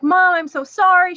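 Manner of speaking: high-pitched imitation of a tearful daughter; retold crying apology. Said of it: "She's crying. She's like".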